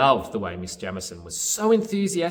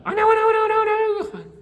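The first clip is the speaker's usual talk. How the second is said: very high, loud puppet squeal; squeaky-high, insistent interruption from a puppet; excitable puppet; 11 dB louder, faster than usual. Pretend. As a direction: jump in like an impatient little puppet. Excitable puppet Grover cuts in.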